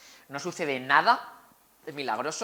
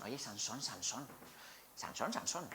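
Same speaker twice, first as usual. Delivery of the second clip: quiet, wheedling call of his name; soft coaxing call; 4 semitones lower, 13 dB quieter than usual. Acted. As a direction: coax him gently, almost whispering. Dalila coaxing Sansón nightly.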